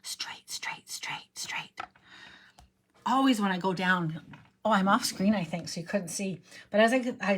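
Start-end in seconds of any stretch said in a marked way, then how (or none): 0.0-1.8 concentrated under-breath whisper; murmuring "straight" as she aligns the stamp; whispered focus. Real, not acted. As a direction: whisper "straight" to herself while lining up. Concentrating while placing stamp.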